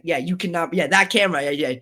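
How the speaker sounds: lightly mimicked African accent. Security lady refusing the camera, imitated African accent. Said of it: "She has that African accent".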